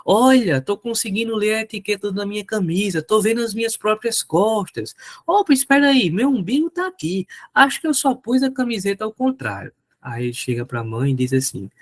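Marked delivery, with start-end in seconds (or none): 0.1-9.7 put-on boy's voice. Boy's voice continued in joke.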